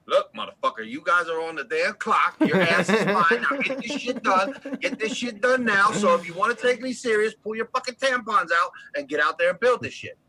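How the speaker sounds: loud, high barking supervisor; oil rig boss chewing out his crew; rig boss yelling. Shown as a demonstration. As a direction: tear into the crew like a foreman. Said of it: "That's how we talk on the rig".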